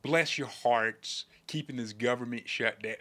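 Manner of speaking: a hint of a genteel Southern lady. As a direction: stretch it out like a Southern belle. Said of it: "like a Southern lady".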